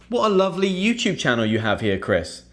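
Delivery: mock viewer compliment. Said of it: "viewer compliment acted out".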